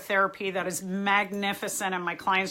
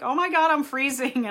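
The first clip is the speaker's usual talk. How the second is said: mock freaking out; 5 semitones higher than usual. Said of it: "like, freaking out".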